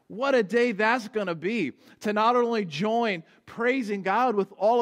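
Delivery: lively preaching lift on What a day; eager. Real, not acted. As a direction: exclaim it with hopeful energy. Preacher exults over the future.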